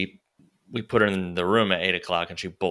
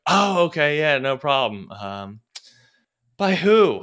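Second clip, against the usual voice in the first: salesman imitation; 5 semitones higher, 4 dB louder, slower than usual. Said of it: "And he goes".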